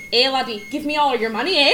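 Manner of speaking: mock Irish tough guy; Irish mobster accent. Host imitating an Irish mobster robbing someone, mock-threatening Irish. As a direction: demand it in a jokey Irish accent. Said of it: "mob person seriously when they have an Irish accent".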